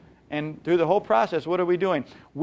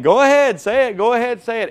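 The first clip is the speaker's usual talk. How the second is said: higher and louder mocking go-ahead; sarcastic dare; 7 semitones higher, 6 dB louder than usual. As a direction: goad them on.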